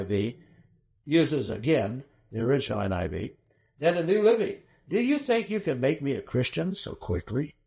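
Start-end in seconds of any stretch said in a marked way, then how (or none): 3.8-7.5 sarcastic. Retold or imitated. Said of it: "Hear the sarcasm?".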